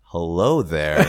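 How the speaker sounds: slow, haughty Imperial hello; drawn-out cold officer greeting; arrogant Imperial. Retold or imitated. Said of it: "the Imperial's like".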